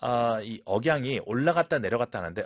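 usual speaking voice

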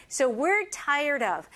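slow, drawn-out repeat for learners; slow model phrase. Shown as a demonstration. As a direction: say it slowly so they can copy. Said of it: "All right".

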